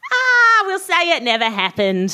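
high loud groan sliding down into speech; pained brush-off. Acted. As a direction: cry out, then settle to wave it away. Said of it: "he winced".

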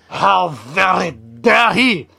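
indignant king. Acted.

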